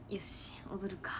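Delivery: slow, whispered, half-hearted resolve; reluctant whisper. Retold or imitated. Retelling how she got up to dance, slow whisper. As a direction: barely push yourself to say it. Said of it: "マジこんな感じで立ち上がった".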